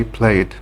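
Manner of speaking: "played" ending in a voiced d. Shown as a demonstration. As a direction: pronounce "played" as one syllable, playd. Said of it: "the E D is pronounced".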